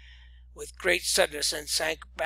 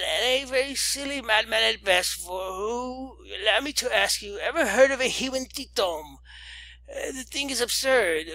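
put-on old lady scoffing; 4 semitones higher than usual. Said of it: "cried the old lady".

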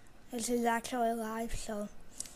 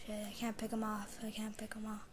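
hushed, whispered frustration; tense whisper; 8 dB quieter than usual. Real, not acted. Gamer whispering to himself while sniping an enemy. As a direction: whisper it while lining up the shot.

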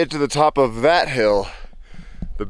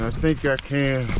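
effort grunt. Real, not acted. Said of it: "I am the little engine".

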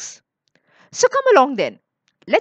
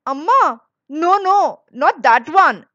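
put-on higher, raised child's protest; urgent objection; 6 semitones higher, 5 dB louder than usual. A narrator's reading. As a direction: protest quickly to mother, pitch up. Boy stops mother choosing black puppy.

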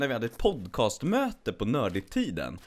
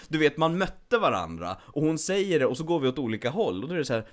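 normal talking voice

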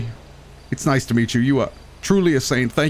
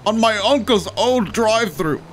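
amazed exclaim; 8 semitones higher, slower than usual. Acted. Royal character exclaims slowly.

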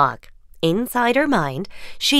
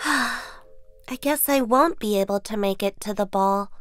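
dejected Cinderella; 3 semitones higher than usual. Acted. Cinderella despairing.

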